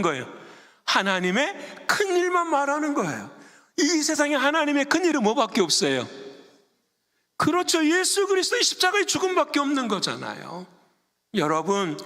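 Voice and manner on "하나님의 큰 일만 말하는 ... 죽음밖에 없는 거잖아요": high, insistent sermon delivery; impassioned pulpit voice; fervent preaching. Real, not acted. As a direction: drive the point home in a raised pitch. Preaches at full force.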